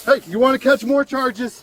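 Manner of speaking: shouting. Real, not acted. Officer yelling at resisting arrestee.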